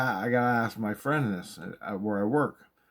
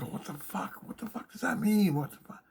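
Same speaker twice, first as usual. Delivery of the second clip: baffled disbelief; 11 semitones higher than usual. Retold or imitated. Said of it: "I'm like".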